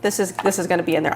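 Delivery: breathless, winded speech; talking while short of breath. Real, not acted. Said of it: "I don't know why I sound so out of breath".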